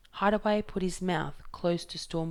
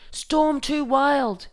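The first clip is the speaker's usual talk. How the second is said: slow, much higher, much louder bellow; 9 semitones higher, 10 dB louder, much slower than usual. Acted. Fingerbone tells them the sea is too rough, slow loud bellow. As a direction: drag each word out against the wind. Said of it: "he bellowed".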